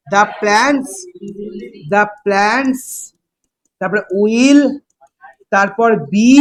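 very slow, each word set apart; slow dictation. Shown as a demonstration. Teacher dictates the final answer slowly for students to copy. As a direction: dictate word by word with long gaps. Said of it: "teacher dictating the answer".

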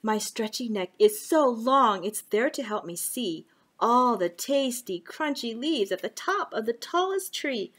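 lively storybook reading; reading to children. Acted. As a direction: read it to little kids. Reading a picture book.

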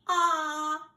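a wide-open "Ah." like at the doctor; open-mouth ah. Shown as a demonstration. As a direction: show the kids how to say "Ah." with mouth wide.

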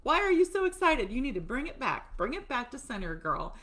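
put-on loud, high "whoa girl" easing down; mock body voice. Her body telling her to calm down, loud then settling. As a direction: rein in an overexcited friend. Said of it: "My body's like".

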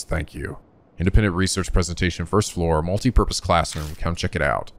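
even, measured read-aloud; story narration. A narrator's reading. Narrator reading a flyer found by the shoe rack, measured narration. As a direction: read the notice out evenly.

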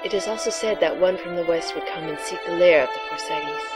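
hushed mystical seer; breathy oracle voice. Acted. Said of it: "your breathy, sexy voice for the oracle".

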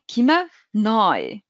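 ناي said very slowly with an oy sound, like neu; ناي spoken slowly, rhyming with boy; German eu sound. Shown as a demonstration. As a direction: draw out ناي as noy. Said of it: "أوي تولي".

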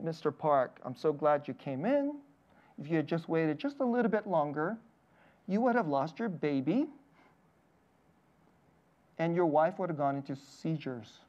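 imitating the doctor's calm, quiet delivery. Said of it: "she said this really calmly".

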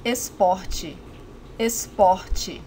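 esporte said slowly and clearly, final te as chee; teacher modelling esporte for learners; model Portuguese word. Shown as a demonstration. Teacher models esporte for learners, clear and careful. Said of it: "An important related word here is esporte".

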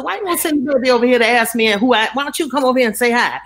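fast, sassy scolding; sassy retort. Retold or imitated. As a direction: scold her quickly with sass. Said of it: "I talk like this to people".

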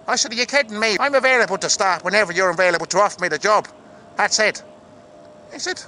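put-on chatty Irish-accented storytelling; lively Irish character voice. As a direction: tell it as an Irish actor.

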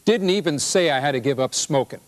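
indignant husband. Acted. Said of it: "He says".

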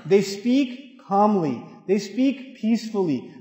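slow, measured, peaceful delivery; unhurried, soothing demonstration; calm. Shown as a demonstration. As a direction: stretch the words out calmly.

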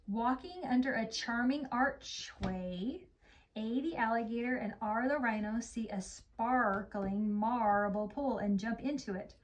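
slow storybook narration; gentle read-aloud; story reading. Acted. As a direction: read it slowly to a young child. Reads story to child.

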